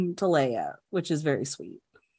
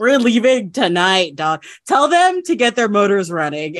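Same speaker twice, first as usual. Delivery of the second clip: Han voice; 2 semitones higher, 4 dB louder than usual. Acted. Repeats Han's line louder.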